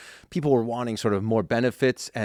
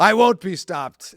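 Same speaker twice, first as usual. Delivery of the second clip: mock villain boast; 9 semitones higher, 7 dB louder, slower than usual. Joking boast after co-host hype.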